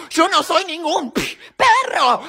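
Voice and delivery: slow mock crying protest. Kid treated like a dog, slow mock crying. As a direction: whine it slowly as if crying.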